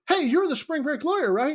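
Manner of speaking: high, eager frat bro calling out; frat boy. Retold or imitated. Frat boy rushing up to the lawyer, high eager call. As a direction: run up like an overexcited fan. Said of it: "I run up to him, I go".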